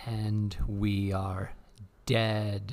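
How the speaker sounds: slow ominous intro; spooky deadpan. Acted. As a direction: drag it out like a ghoul. Spooky twist on going live.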